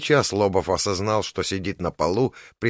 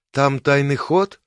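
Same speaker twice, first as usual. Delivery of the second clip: hopeful; 6 semitones higher, 5 dB louder, slower than usual. A narrator's reading. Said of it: "с надеждой в голосе спросила Марго".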